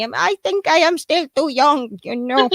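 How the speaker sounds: lightly voiced old grandma; a hint of an elderly lady. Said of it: "that's my grandma impression".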